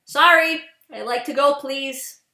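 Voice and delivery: pointed, in-your-face politeness; curt fake-polite request; animated. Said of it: "I'm gonna sound a little bit, like, animated".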